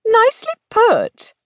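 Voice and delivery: high, sarcastic aside; muttered sarcasm. Acted. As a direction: toss it off sarcastically. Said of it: "she muttered sarcastically".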